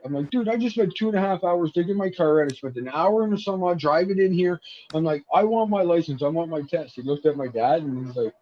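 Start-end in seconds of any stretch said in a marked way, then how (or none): 0.3-7.0 half-shouted complaint, pitched high, replaying losing it; reliving the frustration of a wasted trip; retold outburst. Venting at the exam clerk, mildly mock-angry and raised. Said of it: "And I lost my shit".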